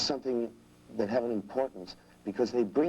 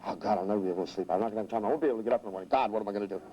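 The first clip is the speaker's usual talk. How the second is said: fast anxious self-talk; much faster than usual. Retold or imitated. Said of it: "They talk to themselves real fast".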